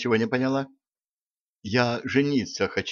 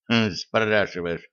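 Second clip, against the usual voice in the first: snorting; slower than usual. Acted. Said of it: "фыркнул Шреддер".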